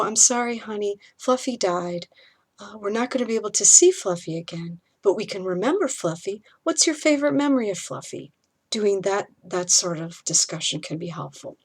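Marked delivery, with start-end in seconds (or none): 0.0-8.3 tender parent comforting. Shown as a demonstration. Parent comforts child about Fluffy.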